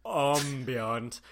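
"Ambient" said French-style as AHM-bee-ahnt; ah-sound "Ambient". Shown as a demonstration. Repeating the word back to a puzzled friend, French-style ah pronunciation. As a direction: draw out "Ambient" with an open ah at the start. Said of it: "saying ambient and ambient".

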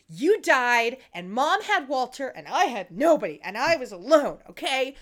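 loud, emphatic mock accusation; acted wounded outburst; overreacting. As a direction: punch each grievance like a wronged little sister. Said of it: "it seemed unearned how much she overreacted".

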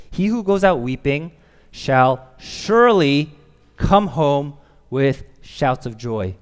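SURELY drawn out loud and slow; emphatic reading. Shown as a demonstration. Preacher reads the verse as it should read, emphatic. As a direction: read it with heavy weight on "surely". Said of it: "it should read like this".

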